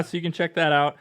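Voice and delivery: normal talking voice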